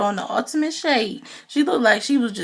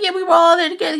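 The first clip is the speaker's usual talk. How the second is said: mock loud retort; 8 semitones higher, 7 dB louder, much faster than usual. Wife confronts husband.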